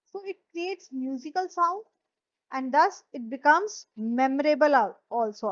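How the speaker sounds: very slow, word by word; dictated. Shown as a demonstration. Teacher to class, dictating slowly.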